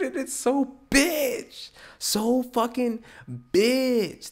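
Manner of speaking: high, loud, drawn-out whine of disgust; slow exaggerated high-pitched outburst; exasperated. Real, not acted. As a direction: stretch each key word way up high. Exasperated rant about passive aggression.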